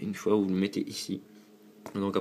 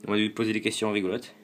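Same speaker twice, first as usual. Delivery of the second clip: ordinary talk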